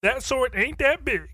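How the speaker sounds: high, hyped YouTuber intro. Retold or imitated. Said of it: "you got some guy".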